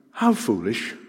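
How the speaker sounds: gentle, fond chiding; loving rebuke. Acted. Jesus to his followers, lovingly chiding. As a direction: chide them with affection, understated. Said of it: "in a very loving way".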